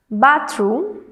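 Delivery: "bathroom" with the weight on BATH; stress on first syllable. Shown as a demonstration. Teacher reading words to students, "bathroom" stressed on BATH. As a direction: say "bathroom" as BATH-room, carefully. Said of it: "stress on the first syllable".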